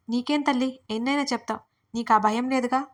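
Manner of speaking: a touch of mockery; lightly sarcastic jab. Nervous friend teases the carefree narrator, mildly sarcastic. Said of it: "వెటకారం మాటల్లో mix చేసి".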